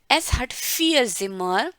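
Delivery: very slow, word by word; slow model reading. Shown as a demonstration. Teacher reading Elena's German line slowly. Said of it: "model reading of text".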